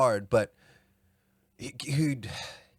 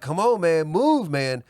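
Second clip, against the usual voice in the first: loud coaching yell, pitched up; 6 semitones higher, 5 dB louder, slower than usual. Retold or imitated. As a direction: shout him off the mat. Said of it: "Coach is yelling this to him".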